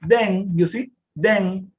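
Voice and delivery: Then ending with the mouth open. Shown as a demonstration. Teacher modelling Then with the mouth open. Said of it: "con la, la boca abierta".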